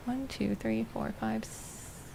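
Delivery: soft counting fading to a whisper; counting under breath. Real, not acted. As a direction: count quietly to yourself, trailing off.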